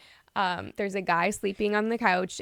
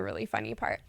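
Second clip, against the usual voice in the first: whisper; 11 semitones lower, 6 dB quieter, faster than usual. Real, not acted. Telling the funny part hushed.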